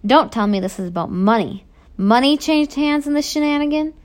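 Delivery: loud outrage, climbing high at the end; angry barking. A narrator's reading. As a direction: build to an incredulous shout. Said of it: "the warden barks".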